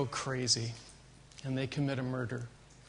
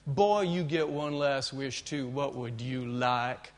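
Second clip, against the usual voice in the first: slow, lightly voiced Texas jailer drawl; slower than usual. Jailer tells the condemned programmers their fate, slow and deliberate.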